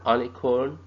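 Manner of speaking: "unicorn" said wrongly as "un-icorn", with an ah vowel and no y; deliberately wrong unicorn; wrong pronunciation. Shown as a demonstration. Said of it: "it is not a un".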